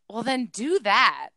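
retold blunt, simple advice; imitating a matter-of-fact friend. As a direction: say it as if it's obvious. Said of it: "you just said it so matter-of-factly".

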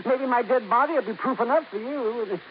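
chuckling through the words; laughing. Acted. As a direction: laugh it off darkly. Parker laughing at his own joke.

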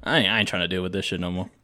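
put-on Bigfoot with a comic Southern accent; Southern-accented Bigfoot, amused by the end. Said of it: "Bigfoot talks like a southern accent".

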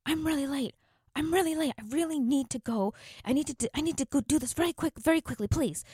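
high, loud, rushed pleading; begging the cashier to hurry up, high and urgent; hurried pushy customer. Retold or imitated. Impatient customer pleading with the teen cashier to hurry, high and loud. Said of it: "she kept insisting".

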